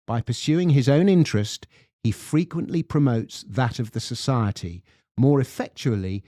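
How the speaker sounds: measured English-accented quote reading; lovely English accent. Shown as a demonstration. Host reads Adam Smith's quote to co-host, lovely English accent. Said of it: "read it out to you in my lovely English accent".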